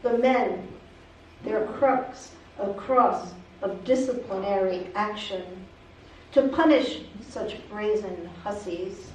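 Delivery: measured poem recital with frequent pauses; poetry reading. Acted. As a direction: read it as a poem, phrase by phrase. Reads own poem aloud.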